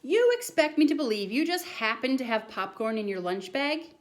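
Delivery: a touch of a stern teacher; incredulous teacher. Acted. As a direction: draw out the doubt. Teacher doubts boy's tale.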